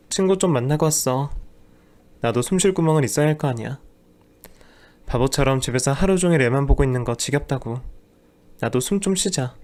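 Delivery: a hint of a fed-up wife pushing back; wife's voice, irritated. Wife defends going out, lightly voiced and exasperated.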